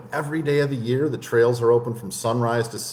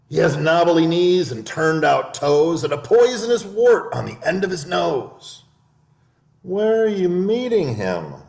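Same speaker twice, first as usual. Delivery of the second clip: high, polite mouse voice; the clever mouse turns down lunch; tiny prim mouse; little mouse; 6 semitones higher, 3 dB louder than usual. Acted. Mouse describes the Gruffalo.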